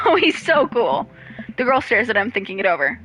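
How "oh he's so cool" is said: gushing. Pretend. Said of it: "gushing at Matt".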